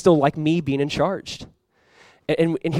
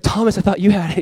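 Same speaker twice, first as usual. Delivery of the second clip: raised-pitch imitated accusation; mock arguing; 5 semitones higher than usual. Preacher voicing Peter blaming Thomas for the bread, arguing. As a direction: pass the blame in a playful squabble. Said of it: "They're, like, arguing".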